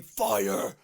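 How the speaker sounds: hoarse mock shout; imitated scream. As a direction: imitate a hero yelling a warning. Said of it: "he's screaming".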